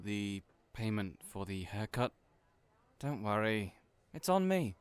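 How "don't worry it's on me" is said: eager insistence. Acted. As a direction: brush off the payment brightly. Chester insisting on paying.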